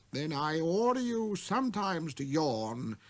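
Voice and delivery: slow, vexed, faltering king; spluttering king. Acted. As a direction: trip over your words, annoyed. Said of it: "he spluttered a little and seemed vexed".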